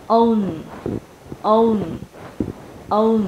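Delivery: "Own" with a full O gliding onto a tongue-tip N. Shown as a demonstration. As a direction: model "Own" slowly, ending on a held N. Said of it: "đầu lưỡi mình sẽ chạm". ("Own": âm O rồi đầu lưỡi chạm vòm họng thành N)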